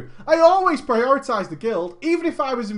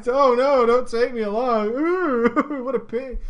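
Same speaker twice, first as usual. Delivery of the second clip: sarcastic fake pity.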